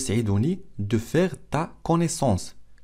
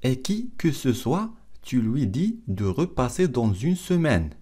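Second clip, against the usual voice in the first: slow, carefully separated French phrases; slow model reading; much slower than usual. Shown as a demonstration. Teacher repeats the film line for learners, slow model reading. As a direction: read it slowly for language learners.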